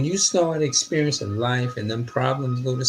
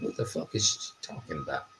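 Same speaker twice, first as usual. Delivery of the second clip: incredulous; 10 dB quieter, faster than usual. Retold or imitated. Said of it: "You know how we look".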